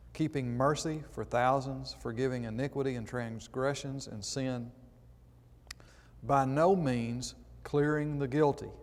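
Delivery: measured, solemn Bible reading; scripture reading. Acted. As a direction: read the verses like a preacher from the pulpit. Reads scripture aloud.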